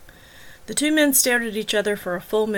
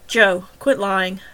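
slow, louder, each word weighed down; stern slow command; 5 dB louder, much slower than usual. Acted. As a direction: lay down the law, slowly. Detective confronting suspect.

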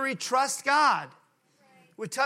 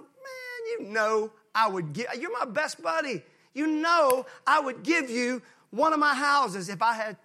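hammed-up devotion; 3 semitones higher than usual. Clyde promising Earl Ray a house, hammed-up devotion. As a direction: gush loyally to a best buddy. Joke, Clyde gushes to friend.

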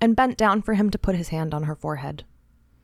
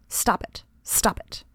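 urgent whisper; 3 dB quieter, slower than usual. Acted. She pleads with herself inwardly.

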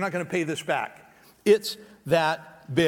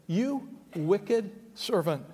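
slow, heavy, quieter condemnation; stern rebuke; 3 dB quieter, much slower than usual. Acted. The master calls in the servant, a slow stern rebuke. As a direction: let each word land as judgment. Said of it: "he said".

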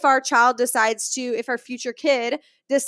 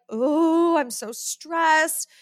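mock stressed complaining; 3 semitones higher, slower than usual. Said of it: "If you are like".

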